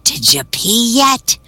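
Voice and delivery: high, slow little elf voice asking. Retold or imitated. Elf checks on the man's bedtime in a high, slow voice. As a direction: lift it up, stretch it out slowly. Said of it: "he goes up to my ear and he asks".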